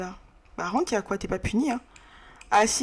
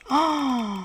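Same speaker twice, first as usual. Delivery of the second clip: long, higher "oh"; drawn-out dramatic "oh"; mock-alarmed oh; 4 semitones higher than usual. Real, not acted. Réagit à la colère du personnage. (long « oh » faussement alarmé)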